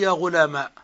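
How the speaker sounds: "غلاما" ending in ā; ya turned to alif. Shown as a demonstration. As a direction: end "غلاما" on an open aa. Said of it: "والرابعة".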